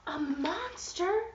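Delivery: slow, loud, high exclamation; dramatic reveal. Acted. Revealing the monster to kids, dramatic loud exclamation.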